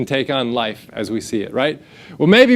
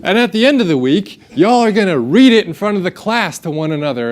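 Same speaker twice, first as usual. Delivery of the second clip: lightly imitated teacher, higher voice; 4 semitones higher, 4 dB louder, faster than usual. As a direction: announce it to the class as a teacher. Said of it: "My teacher gets up, she's like".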